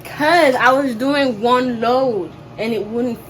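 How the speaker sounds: loud, defensive snapping back; heated argument. Real, not acted. Arguing with partner over laundry.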